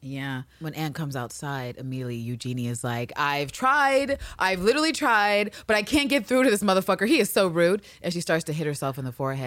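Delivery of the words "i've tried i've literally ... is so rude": exasperated maid voice. Retold or imitated. Eugenie voiced in recap.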